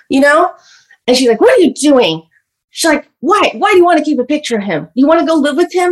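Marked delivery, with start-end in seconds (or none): 1.4-5.9 angry mother. Retold or imitated. Mother voiced angrily confronting child.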